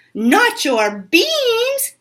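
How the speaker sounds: high, very slow outraged wail; high slow mock outrage; outraged cry. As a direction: drag it out in outrage. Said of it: "cried Scapito, outraged".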